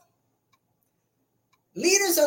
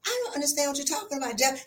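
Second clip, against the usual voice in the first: feigned innocence; 6 dB quieter, faster than usual. Retold or imitated. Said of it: "your face is saying".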